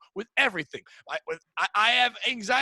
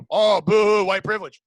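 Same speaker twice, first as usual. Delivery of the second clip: mocking whine; 8 dB louder than usual. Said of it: "people say".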